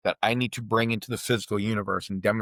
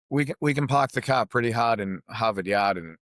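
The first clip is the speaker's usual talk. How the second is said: dropped-r Boston brag, laid on thick; playful Boston accent, r's dropped from park, car, hard, Harvard Yard; hammed-up Boston accent. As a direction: show off a broad Boston accent. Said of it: "my accent is horrible if you want".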